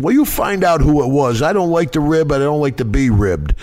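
annoyed complaint. Retold or imitated. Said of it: "I said".

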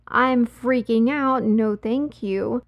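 slow, drawn-out mock refusal; emphatic refusal. Woman turning down a pushy stranger, slow emphatic refusal. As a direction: spell it out slowly, acting out her refusal.

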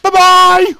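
high, loud robotic bye-bye. Pretend. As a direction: chirp it like a robot. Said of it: "It sounded like a robot".

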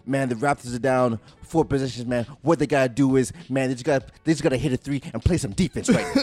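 hammed-up obvious TV analyst; mocking an analyst stating the obvious; mock commentator. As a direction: state the obvious like a lazy commentator. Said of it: "they'll do something like".

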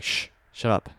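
put-on breathy warning whisper to frightened kids; urgent whisper. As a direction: hiss a hushed shut up. Hushing cousins, hiding from something.

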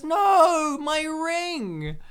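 high, loud mock wail; hammed-up high cry of loss; mock anguished cry. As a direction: cry out in exaggerated despair. Acting out her cry for the ring.

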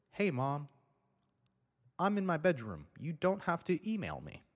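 put-on high, pleading kid voice to mom; sulky teen calling from the bedroom; whiny teen. Teen self quoted to mom.

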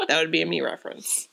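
vocal fry. Real, not acted. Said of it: "Vocal fry?".

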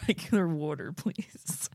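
mock Pennsylvania accent. Teasing the one-word accent.

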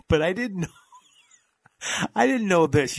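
high-pitched, laughing as he talks. Real, not acted. Telling cohost he didn't know this, laughing. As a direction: laugh through the words. Laughing between words at the news.

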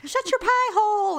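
angry. Retold or imitated. Mock telling off chewer.

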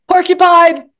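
high, loud single-word call; loud, high cry of the code word. Shown as a demonstration. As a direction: call out the safe word sharply. Saying the agreed code word.

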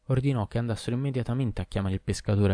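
ordinary delivery, nothing marked

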